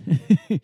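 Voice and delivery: high loud laugh; real laughter bursting out. Real, not acted. Laughs at the joke.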